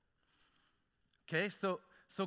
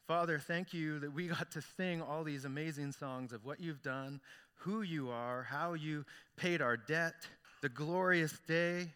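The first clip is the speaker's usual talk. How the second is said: leading prayer; 2 semitones lower than usual. Acted. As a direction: pray aloud for the room, gently. Pastor leads prayer.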